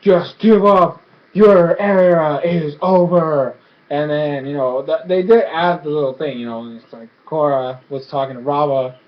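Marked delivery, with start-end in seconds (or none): 0.0-3.5 slow, drawn-out mock villain; lightly voiced villain, stretching the last words; menacing villain. Unalaq taunting trapped Korra, slow villainous menace. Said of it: "Unalaq trying to crush her, going like".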